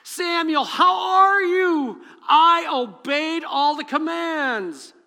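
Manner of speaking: high, loud, slow overeager greeting; hammed-up cheerful Saul. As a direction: shout a fake-cheery hello. Saul greets Samuel too cheerfully.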